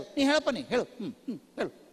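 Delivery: half-listening parent humming along; distracted half-listening. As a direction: toss out an absent-minded "go on", then just hum along. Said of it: "T V ನೋಡ್ತಾ ಇರೋದು".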